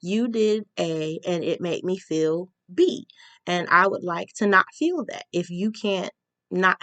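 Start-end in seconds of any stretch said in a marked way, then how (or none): 0.0-5.2 calm assertive statement. Shown as a demonstration. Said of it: "we can have healthy confrontation".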